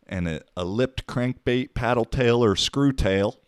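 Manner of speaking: lightly put-on southern accent. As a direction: read it out with a hint of southern twang. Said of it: "gotta say that in a southern accent".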